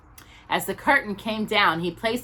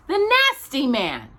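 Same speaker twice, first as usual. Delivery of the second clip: patiently; 7 semitones higher, 4 dB louder than usual. A narrator's reading. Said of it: "said Paddington patiently".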